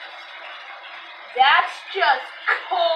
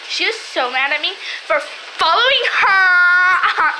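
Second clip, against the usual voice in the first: slow, higher, through laughter; laughing; 4 semitones higher, 5 dB louder, slower than usual. Real, not acted. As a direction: giggle through the words. Laughing while telling.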